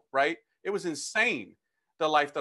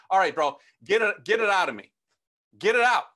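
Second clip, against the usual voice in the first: insistent plea, building louder; urgent demand; 5 dB louder than usual. Retold or imitated. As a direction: re-enact a desperate order, ending loud. Reenacts demanding help from priest.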